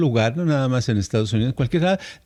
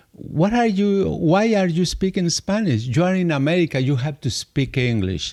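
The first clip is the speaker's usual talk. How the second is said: mock reproachful waiter, starting higher and slowing down; scolding waiter; 4 semitones higher than usual. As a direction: lightly imitate a waiter telling off a customer. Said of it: "llegaba algún mesero, alguna mesera".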